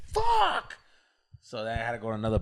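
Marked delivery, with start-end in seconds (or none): 0.1-0.8 high mock-exasperated squeal; retold dismay. Storyteller losing his dance partner, high mock dismay. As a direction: let out a comically defeated falsetto curse. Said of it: "And I'm just like".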